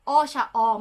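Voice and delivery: O with the lips in an oblong shape; O rounded, between o and u. Shown as a demonstration. Teacher shows how to say O: lips oblong. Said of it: "Mas oblong siya".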